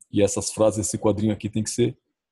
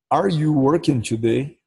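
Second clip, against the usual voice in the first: slow teaching read; 3 semitones higher, much slower than usual. Shown as a demonstration. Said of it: "Se pra mesma pergunta".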